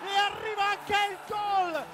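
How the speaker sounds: goal shout. Real, not acted. Goal call in commentary.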